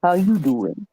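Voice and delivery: smooth Joey from Friends flirting How you doing; Joey's pickup line. Retold or imitated. Friend demos the Joey line, smooth and flirty. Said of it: "did you practice".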